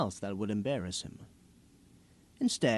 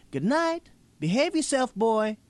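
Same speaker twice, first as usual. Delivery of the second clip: much higher, firm parting words; firm goodbye; 12 semitones higher, 6 dB louder than usual. A narrator's reading. Woman at the door sends the boy away, high and firm. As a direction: send him off with one last warning.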